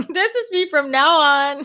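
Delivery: giggling through the words; laughing. Real, not acted. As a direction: laugh while you say it. Laughing at stick figure reveal.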